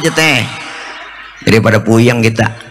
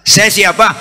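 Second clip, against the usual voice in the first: calling out; 6 semitones higher than usual. Retold or imitated. Sick man calls back.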